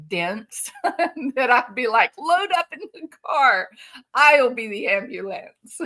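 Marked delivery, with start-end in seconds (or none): 2.2-5.8 acted eagerness. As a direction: jump in as the overeager helper. Acting an overeager rescuer.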